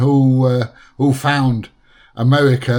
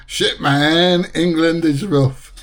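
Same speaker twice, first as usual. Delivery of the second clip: mildly higher, drawn-out mock American; mimicking the American; 3 semitones higher, slower than usual. Host echoing the clip's gullible American, mimicking. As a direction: echo the gullible American, drawing it out.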